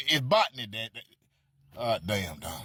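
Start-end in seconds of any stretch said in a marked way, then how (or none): 0.1-0.7 botany with a crisp T and full O; botany, said clearly. Shown as a demonstration. Mocking teacher spells botany out for him. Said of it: "Put the T on it with the O".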